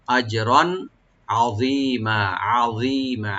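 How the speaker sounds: আযীমা with আইন from mid-throat; throat letter demo. Shown as a demonstration. Teacher showing students the throat letter. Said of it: "যেন গলা মধ্যখান থেকে আসে".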